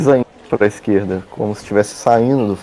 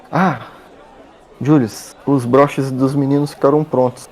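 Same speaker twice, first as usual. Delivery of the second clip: woman's voice; 5 semitones higher than usual. Acted. GM voices Clara.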